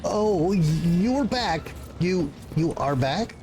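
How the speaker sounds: a frazzled little bureaucrat caught off guard; nervous clerk voice. Acted.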